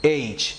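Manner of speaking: "ایچ" alone, opening vowel slightly stretched; drawn-out pronunciation. Shown as a demonstration. Teacher repeating the proper H for learners, drawn-out pronunciation. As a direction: model "ایچ" as aitch without an h. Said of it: "تھوڑا سا کھینچ کر نکلے گا".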